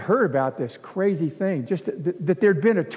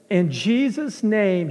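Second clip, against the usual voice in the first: retold yell; 4 semitones higher, slower than usual. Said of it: "he yells it".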